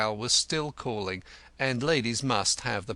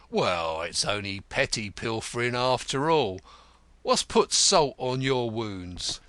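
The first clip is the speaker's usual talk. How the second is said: gruff, amused Grodman; 4 dB louder than usual. Acted.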